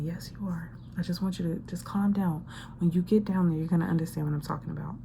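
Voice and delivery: soft low whispery reassurance; calm them down in a hushed voice; Spirit answering softly. Acted. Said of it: "And Spirit is saying".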